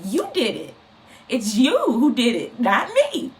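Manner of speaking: a hint of God setting the speaker straight; God scolding. God telling the speaker it was their own doing, firmly.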